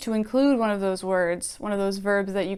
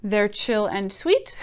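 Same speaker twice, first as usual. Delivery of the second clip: They're chill and sweet said slowly, ending on a rise; slow flat rewrite; slower than usual. Shown as a demonstration. Teacher mocking the plain rewrite for students, slow. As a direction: slowly offer the plainer version. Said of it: "he doesn't say".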